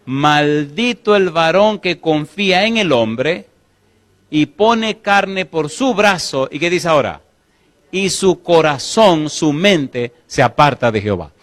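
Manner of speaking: slow, weighty reading of the verse; solemn scripture reading. Acted. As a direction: lean into each word of Scripture. Reads scripture in sermon. (lectura solemne y pausada de la Biblia)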